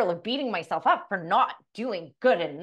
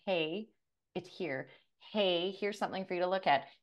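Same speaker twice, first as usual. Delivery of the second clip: hushed, much softer nudging voice; soft whisper; 6 dB quieter than usual. Pretend. The universe gently nudging you, soft hushed voice. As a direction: coax gently, barely above a breath. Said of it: "the universe typically comes in whispering at you".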